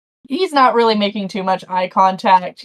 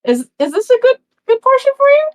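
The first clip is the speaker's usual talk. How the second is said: dwarf woman voice; 13 semitones higher, 4 dB louder, faster than usual. Acted. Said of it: "She's like".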